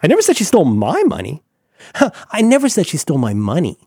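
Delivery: "never" pushed again; stress on never. Shown as a demonstration. Host cycles through the stress game for co-host. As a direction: land on "never". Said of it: "emphasize any word in that sentence".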